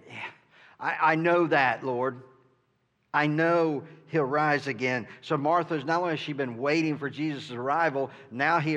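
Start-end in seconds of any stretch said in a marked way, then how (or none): 0.8-5.1 louder, impatient I-know-that; exasperated. Acted. Martha cutting Jesus off, exasperated. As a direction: brush it off, fed up. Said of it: "she's exasperated".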